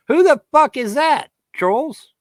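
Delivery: loud, very high challenge; taunting shout. Real, not acted. Ranter confronting online trolls with proof, taunting shout. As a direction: demand an answer at high pitch.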